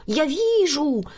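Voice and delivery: a light exclaimed I see; mild cry. A narrator's reading. Fortune teller calling out to regain her audience. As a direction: call out to grab attention. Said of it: "вскрикнула Милада".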